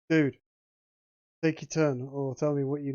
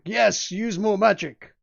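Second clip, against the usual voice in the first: loud, slowed cheer; cheering demons; 5 semitones higher, 5 dB louder, slower than usual. Acted. GM voicing demons urging a spellcaster, loud cheer. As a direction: egg the caster on with a roar. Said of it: "They're cheering you on".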